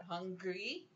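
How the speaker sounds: "Hungry" drawn up at the end, lightly imitating a baby; mild baby cry imitation. Parent imitating the baby's hunger cry, "Hungry" with rising end. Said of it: "she has a certain cry that comes out".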